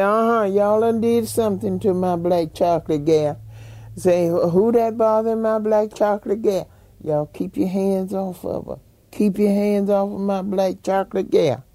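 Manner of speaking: protective grandfather. Retold or imitated. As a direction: call out like a granddad guarding his child.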